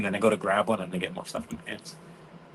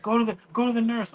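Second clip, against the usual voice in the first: vice principal ordering; 12 semitones higher than usual. Retold or imitated. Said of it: "he's like".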